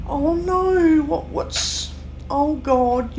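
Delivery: high startled gasps, then a breathy what; mock alarm. Recalling her own alarm at someone's outburst, high and startled. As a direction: play your own startled panic.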